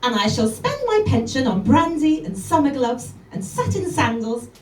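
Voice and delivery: brisk lively recitation of a poem; poem reading. Acted. Comedian reads Jenny Joseph poem to the audience: lively recitation. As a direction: read it out with relish.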